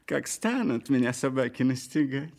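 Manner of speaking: cunning lively fox; sly fox voice. Acted. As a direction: speak as a crafty fox. Fox character speaks.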